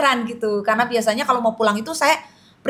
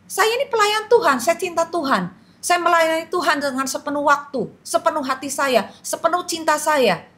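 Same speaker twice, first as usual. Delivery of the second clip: pleading protest; 6 semitones higher than usual. Acted. Dead woman protests to angel.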